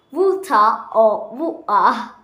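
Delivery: whispered water or water; whispering. Shown as a demonstration. Whispered pronunciation drill.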